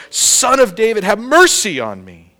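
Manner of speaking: crying out. Acted. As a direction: call out insistently as the blind beggar. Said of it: "he cried out all the more".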